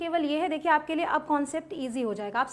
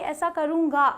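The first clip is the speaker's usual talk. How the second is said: ऐसा करूँगा pressed out firmly, a touch louder, like a promise; said with force; 4 dB louder, slower than usual. Shown as a demonstration. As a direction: put weight on ऐसा करूँगा as a firm promise. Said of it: "थोड़ा ज़ोर दे के बोलते हैं".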